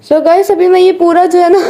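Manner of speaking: giggling through her intro to the viewers; laughing. Real, not acted. Vlogger laughing as she addresses her viewers. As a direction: laugh while trying to start over.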